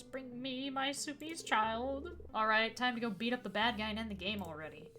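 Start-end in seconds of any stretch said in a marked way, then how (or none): 0.0-2.1 put-on croaking old voice. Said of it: "An old voice croaks at you".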